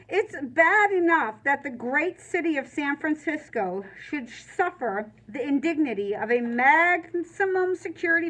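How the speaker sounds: prim indignant letter voice; stiff formal letter read. Acted. Mother writing to the warden, prim and indignant. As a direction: read it like an offended society lady.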